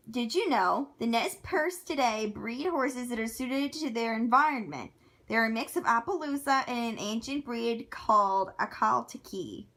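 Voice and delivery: lively fact-reading voice; reading aloud. Acted. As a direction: read it out like a fun fact.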